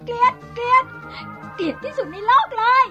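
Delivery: screaming hatred. Acted. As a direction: scream it at him. Wife screams her hatred.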